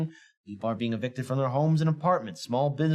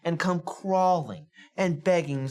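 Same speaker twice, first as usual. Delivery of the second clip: higher and louder, heated; angry rant; 6 semitones higher, 3 dB louder than usual. Real, not acted. Host rants at politicians on his show, much higher and louder. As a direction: hammer home the point in outrage. Ranting host rises in anger.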